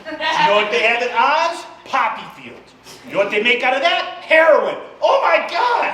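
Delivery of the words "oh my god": high laughing Oh my God; excited outburst. Acted. Realizing Oz has heroin, a high gleeful outburst. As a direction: gasp it out with glee. Mock epiphany about heroin.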